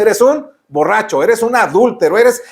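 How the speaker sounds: blunt, firm naming of sin; frontal, direct. Retold or imitated. God confronting the sinner directly, firm and blunt. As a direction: say it straight to the face. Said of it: "Él lo dice de manera frontal".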